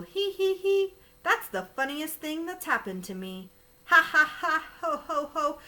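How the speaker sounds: high acted hee hee and ha ha; giggling. Elephant laughing at the scare, high acted laugh. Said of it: "He began to giggle".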